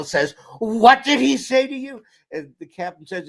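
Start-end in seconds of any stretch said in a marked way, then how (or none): 0.6-2.0 high, loud mock-indignant demand; retold outrage. Colonel overhears lieutenant's insolence, mock outrage. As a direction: imitate a scandalized superior, pitched way up.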